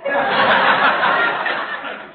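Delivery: short burst of laughter. Real, not acted. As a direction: crack up at the joke. McGee laughs at Molly's joke.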